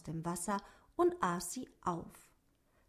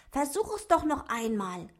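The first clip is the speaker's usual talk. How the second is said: begging; 5 semitones higher than usual. Acted. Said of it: "bettelte Otto".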